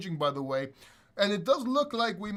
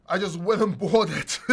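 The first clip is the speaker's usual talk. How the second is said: laughing; 6 dB louder than usual. Real, not acted. Laughs at own impulse buy.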